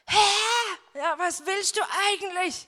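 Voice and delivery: high, loud anguished plea; reliving a desperate prayer, calling out loud; desperate cry to God. Retold or imitated. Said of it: "Ich hab gesagt".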